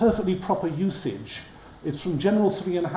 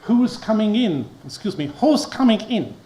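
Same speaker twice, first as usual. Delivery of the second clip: raised higher and louder, calling across the trenches; 7 semitones higher, 4 dB louder than usual. Retold or imitated. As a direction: call the question over to the other line. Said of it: "calling out".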